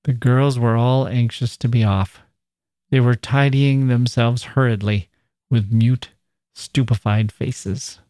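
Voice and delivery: measured, even read-aloud narration; story narration. A narrator's reading. Narrator tells of the girl confronting him, measured narration.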